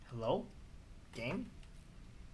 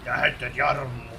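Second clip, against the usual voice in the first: put-on Finland Swedish accent. Mocking a Finnish guy with a Finland Swedish accent. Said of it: "some weird Janko".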